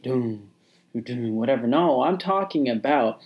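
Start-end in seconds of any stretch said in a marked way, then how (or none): 0.0-1.7 heartbeat imitation. Shown as a demonstration. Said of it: "you know, the beat".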